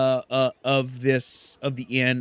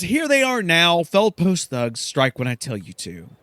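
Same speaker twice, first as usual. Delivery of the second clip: a bit louder, commanding diva; Silke; 4 semitones higher, 4 dB louder than usual. Acted. Silke ordering the strike, louder bossy voice. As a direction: point them at the thugs. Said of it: "She then says".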